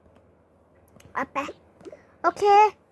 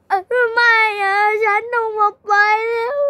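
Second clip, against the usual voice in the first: crying; 4 dB louder, slower than usual. Acted. Mother wailing over broken glasses.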